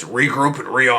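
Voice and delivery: lightly imitated video game soldier; slight change into a game character's order; Call of Duty soldier. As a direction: give it a hint of military game command. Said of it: "like the guy in Call of Duty says".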